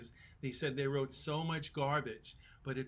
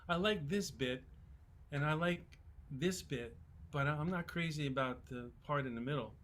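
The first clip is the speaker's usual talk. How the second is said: Scottish producer. Retold or imitated. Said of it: "I'm not even gonna try to do his Scottish accent".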